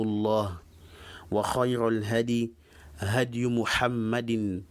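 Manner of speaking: measured, even-pitched Arabic recitation; formal opening invocation. Acted. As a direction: recite the opening formula in steady phrases. Recites the opening sermon formula.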